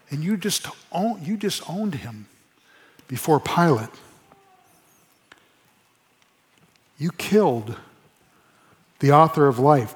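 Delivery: a quiet, compassionate rebuke. Shown as a demonstration. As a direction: say it tenderly, like gently breaking hard news. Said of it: "there was a compassion on these people".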